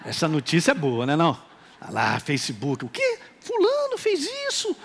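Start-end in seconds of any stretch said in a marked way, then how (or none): 2.8-4.8 high mock gasp of disbelief; mock shock. Pastor mimics a believer reading Facebook gossip, high mock shock. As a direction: squeal it like gossip just landed.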